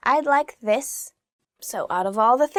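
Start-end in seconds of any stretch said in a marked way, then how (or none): 0.1-1.1 slow line with "this" emphasized; stress on THIS. Shown as a demonstration. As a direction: draw out the request, leaning on "this". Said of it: "you should emphasize the word".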